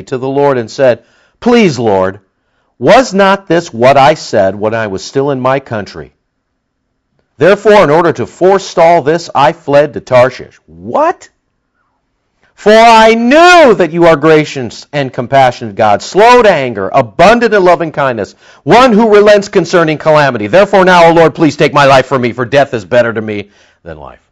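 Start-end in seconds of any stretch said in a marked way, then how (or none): 1.4-10.6 aggrieved, loud pleading prayer; Jonah's complaint. Acted. Voicing Jonah's angry prayer. 10.7-11.3 high, sharp disbelieving what; incredulous. Real, not acted. Preacher's incredulous aside. 12.5-24.2 aggrieved, loud pleading prayer; Jonah's complaint. Acted. Voicing Jonah's angry prayer.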